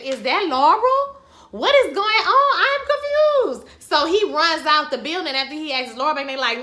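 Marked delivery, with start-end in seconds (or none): 0.0-3.7 rising much higher into a laughing, slow squeal; shocked confusion. Retold or imitated. Recapper reacting to the flashback, higher and higher in shock. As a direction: climb up in disbelief and break into a laugh. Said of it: "And I said".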